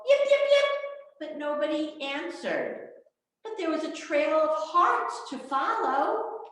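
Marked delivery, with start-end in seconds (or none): 0.1-0.7 fox yips. Acted. Little fox calls toward the music, yipping high. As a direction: call out like a small fox, much higher. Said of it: "She called".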